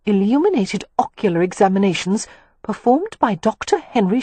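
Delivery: lightly voiced woman reading a formal notice; reading aloud. A narrator's reading. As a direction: read out the official wording in measured phrases. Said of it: "she read aloud".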